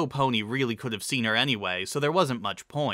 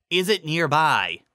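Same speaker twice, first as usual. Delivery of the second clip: high questioning voice; 5 semitones higher, 5 dB louder than usual. A narrator's reading. Lyra voiced.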